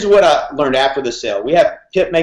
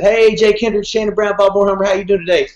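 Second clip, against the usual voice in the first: a raised, upbeat sales-call greeting; higher, cheery mock salesman voice; imitating the salesman; 6 semitones higher than usual. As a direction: play the chipper car salesman on the phone. Salesman's upbeat phone greeting retold.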